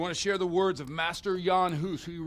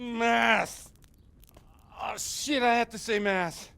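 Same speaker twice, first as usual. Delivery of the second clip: sudden alarmed shout, higher; panicked realisation; 6 semitones higher, 5 dB louder, slower than usual. Acted. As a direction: blurt it out in panic.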